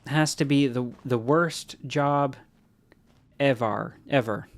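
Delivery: dragged-out slow line read; hammed-up studio delivery; finishing the mock voice session line; voice acting read. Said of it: "bring you in for a voice acting session".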